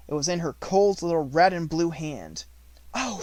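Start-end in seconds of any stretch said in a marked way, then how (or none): 2.9-3.2 startled high gasp; a sharp surprised gasp; gasp of surprise. A narrator's reading. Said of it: "she gasped".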